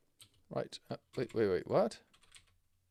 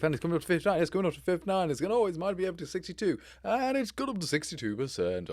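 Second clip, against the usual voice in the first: excited rising race call, building; race commentator; faster than usual. Acted. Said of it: "I'm trying to sound like a race commentator".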